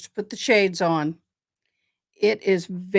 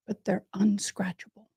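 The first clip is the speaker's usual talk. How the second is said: whispering; 6 dB quieter than usual. Real, not acted. Whispered aside.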